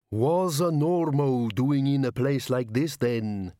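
slow rumbling bogeyman. Acted. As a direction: loom over her with a rumble. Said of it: "it rumbled".

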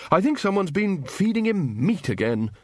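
high-pitched wizard's remark; hearty Ridcully. A narrator's reading. Wizard explains the bursar's fit to students, hearty.

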